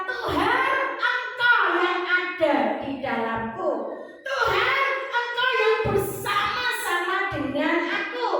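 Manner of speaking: fervent prayer. Acted. The preacher leads the church in loud prayer. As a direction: call out to God in full force.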